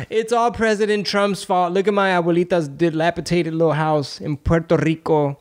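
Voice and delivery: lightly voiced pleading congresswoman, starting high; mock a politician complaining, lightly; AOC impression. Congresswoman blaming the president for her grandmother's house, mildly mocking impression. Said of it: "And she's like".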